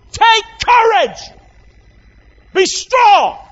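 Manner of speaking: high ringing shout of courage; rousing shout. Shown as a demonstration. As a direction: cry it out to lift them. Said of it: "He's saying".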